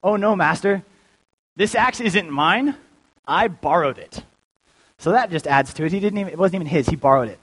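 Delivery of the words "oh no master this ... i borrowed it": mildly acted dismay, starting higher; slow, lightly dramatized panicked confession; mock freaking out. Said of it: "so he's freaking out".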